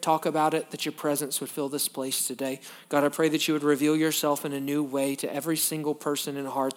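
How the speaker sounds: prayer. Acted. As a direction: pray over the room, quick and soft. Leads congregation in prayer.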